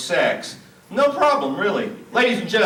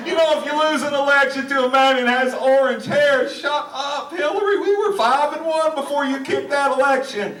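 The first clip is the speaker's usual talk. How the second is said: lightly voiced Bill Clinton; 8 semitones higher than usual. Mocking Clinton scolding Hillary.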